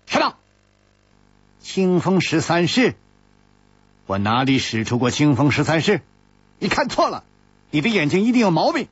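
a loud, flustered denial; loud retort. Acted. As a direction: snap back loudly, caught out. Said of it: "大声说".

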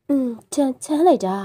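feigned shiver of cold. Acted. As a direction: act chilled to the bone. Woman claims she's cold.

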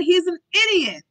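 loud, high angry outburst; roaring. A narrator's reading. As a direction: interrupt with an exasperated roar. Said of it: "Hastings roared".

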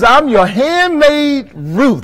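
slow, a hint of a humble Ruth; meek Ruth. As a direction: say it slowly, lowly. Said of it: "she said it like that".

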